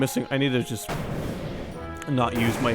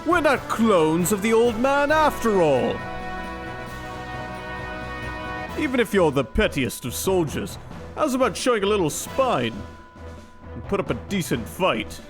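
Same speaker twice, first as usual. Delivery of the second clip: Liquid Snake voice; 6 semitones higher than usual. Acted. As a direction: taunt with hammy menace. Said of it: "I already kinda did give him a liquid voice".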